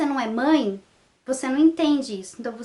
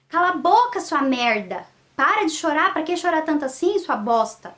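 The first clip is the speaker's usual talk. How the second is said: grito imitado; 3 semitones higher than usual. Retold or imitated. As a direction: imitate a mother snapping at her crying baby. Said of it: "ela gritou". (bronca raivosa imitada)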